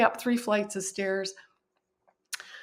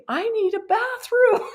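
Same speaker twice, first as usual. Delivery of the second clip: retold blissful state; 12 semitones higher, 3 dB louder than usual. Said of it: "I was in this blissful state".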